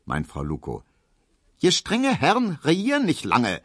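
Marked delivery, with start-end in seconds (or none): 1.6-3.6 put-on croaking old grandmother. A narrator's reading. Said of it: "quäkt Großmutter Neuendorf langsam".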